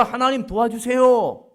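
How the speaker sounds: loud pleading cry for help. Retold or imitated. Job pleading aloud to God in his suffering, loud slow cry.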